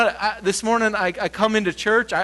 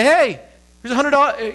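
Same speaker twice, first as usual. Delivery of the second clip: offering cash; 6 semitones higher, 4 dB louder than usual. Retold or imitated. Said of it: "I'd say".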